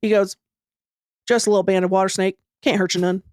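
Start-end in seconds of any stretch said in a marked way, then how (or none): 1.3-3.2 lightly voiced flat little boy, lower, quick; a hint of a stoic kid from the swamp, deadpan; mild imitation of an emotionless eight-year-old boy; Southern swamp boy. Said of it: "I'm gonna do an impression of this boy poorly".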